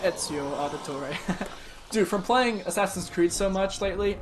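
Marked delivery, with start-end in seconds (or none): 0.0-1.5 put-on Italian accent. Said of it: "I am gonna start talking in an Italian accent".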